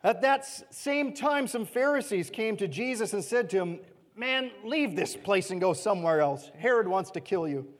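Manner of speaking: steady, measured reading of the passage; scripture reading. Acted. Preacher reading scripture to the congregation, measured. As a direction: read the verses out to the church.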